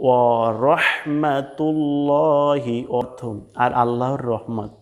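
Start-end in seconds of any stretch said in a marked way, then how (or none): 0.1-2.8 "ওয়া রহমাতুল্লাহি" as wa-rohmatul-looohi; heavy ro. Shown as a demonstration. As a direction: slowly intone it with a long rounded "llo". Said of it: "আমরা বলবো". (ভারী র দিয়ে টেনে উচ্চারণ)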